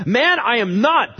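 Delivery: loud, high, slow protest; sworn denial. Acted. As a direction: stretch out a forceful, exasperated denial. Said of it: "denied it again with an oath".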